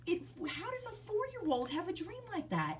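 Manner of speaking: whispered, stunned question; hushed disbelief. Real, not acted. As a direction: whisper it as if it gives you chills. Stunned mom asks in disbelief.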